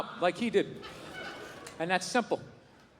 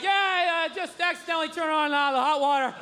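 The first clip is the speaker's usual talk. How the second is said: covering excuse; 4 semitones higher than usual. Retold or imitated. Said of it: "And I'll just be like".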